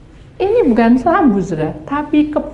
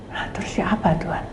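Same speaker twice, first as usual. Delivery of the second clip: whispered prayer; 3 semitones lower, 8 dB quieter than usual. Retold or imitated. Whispered question to God.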